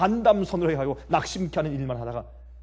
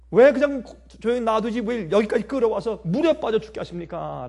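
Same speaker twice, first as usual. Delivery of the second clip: 살짝 높여 따지는 원망 흉내; 백성의 불평을 옮기듯; 원망하는 백성; 4 semitones higher, 5 dB louder than usual. Retold or imitated. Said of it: "그렇게 원망했지 않습니까". (따져 묻는 원망 흉내)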